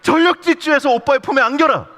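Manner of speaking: high, loud, urgent order; hammed-up divine command. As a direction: command it at full volume, pitched high. God's comic command, acted out. (높고 크게 과장된 명령조)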